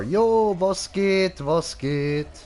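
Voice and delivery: high, loud hyped greeting. Real, not acted. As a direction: greet the viewer like a hype man.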